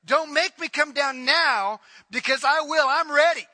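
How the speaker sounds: loud stern divine warning. Acted. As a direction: voice God's warning with force. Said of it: "God is saying".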